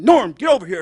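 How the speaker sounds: lightly voiced coach's summons; coach calling. Coach summoning benched player, lightly imitated call. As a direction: call a player over, a hint of gruff command. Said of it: "So my coach went".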